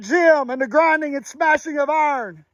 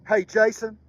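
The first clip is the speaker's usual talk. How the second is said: gentle motherly encouragement; 10 semitones lower, 6 dB quieter than usual. Retold or imitated. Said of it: "she would tell me".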